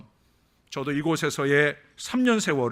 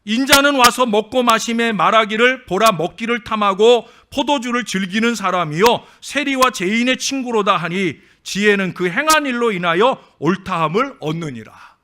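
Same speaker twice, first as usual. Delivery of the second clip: loud, raised scripture read from the pulpit; 6 semitones higher, 9 dB louder than usual. Acted. Pastor reads the Gospel to the church, loud and solemn. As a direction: proclaim the verses to the congregation.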